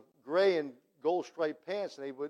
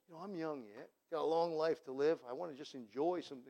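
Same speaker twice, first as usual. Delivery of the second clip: mocking a careless sinner; 2 semitones lower, 6 dB quieter than usual. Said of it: "like some folks will say".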